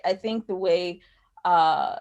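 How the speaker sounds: ordinary talk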